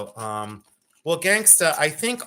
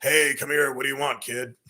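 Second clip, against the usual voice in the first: a hint of a tired old drag queen; lightly voiced jaded diva; retired drag queen; 2 semitones lower than usual. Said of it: "I just sound like a retired drag queen".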